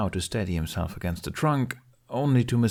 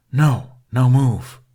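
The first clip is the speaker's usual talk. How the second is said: slow, much louder growling order; growled; 4 semitones higher, 10 dB louder, much slower than usual. Acted. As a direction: Toothless growls to keep the boy from moving. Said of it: "Toothless growled".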